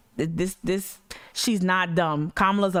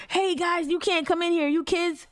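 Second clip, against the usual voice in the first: much higher, mock mall-cop voice; 9 semitones higher than usual. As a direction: shoo them off like a silly mall cop. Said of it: "be a mall cop".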